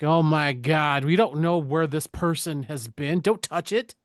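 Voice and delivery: drawn-out shock rising to a warning; imitating a fussy, alarmed parent; mock alarm. Acts out alarmed father.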